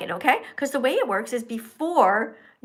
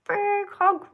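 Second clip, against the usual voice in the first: cute toy voice; 9 semitones higher than usual. Pretend. Voicing little sweetie toy.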